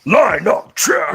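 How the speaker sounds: high, loud drawn-out call; segment shout. Pretend. Host calls the segment open, shouting. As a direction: bellow it like an announcer kicking things off.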